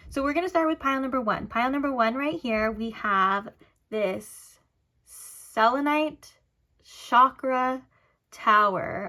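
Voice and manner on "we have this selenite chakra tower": very slow, halting, word by word, with breaks. Reader presents the stone for pile one in a card reading, saying it really slow. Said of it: "I had to say it really slow".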